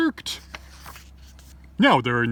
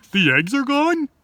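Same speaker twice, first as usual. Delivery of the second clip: hopeful; 10 semitones higher, 5 dB louder than usual. Acted. Hopeful question.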